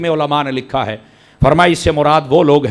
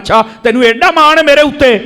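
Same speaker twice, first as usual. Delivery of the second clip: master pleased; 9 semitones higher, 4 dB louder than usual. Retold or imitated. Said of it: "فرمایا".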